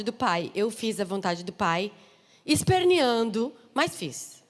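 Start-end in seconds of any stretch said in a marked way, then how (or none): 2.4-3.5 "esperneando" stretched out slowly, loud and high; drawn-out emphasis. Real, not acted. Preacher admitting she obeyed under protest, "esperneando" drawn out with emphasis. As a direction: lean hard on every syllable of "esperneando".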